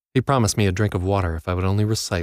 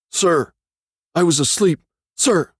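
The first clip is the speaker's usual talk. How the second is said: high shouted reply; 10 semitones higher, 5 dB louder than usual. A narrator's reading. Prisoner barking answer.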